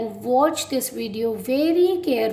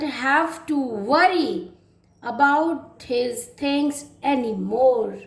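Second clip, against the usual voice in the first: lively storybook reading, rising on the exciting words; story reading to children; slower than usual. Acted. English teacher reads the clown story to her class, lively and expressive. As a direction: read it like a teacher telling a tale to little ones.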